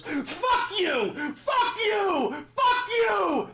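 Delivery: high, loud, frantic mock yell of the president; hammed-up Trump imitation, screeching it out; mocking Trump shouting. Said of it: "and he goes".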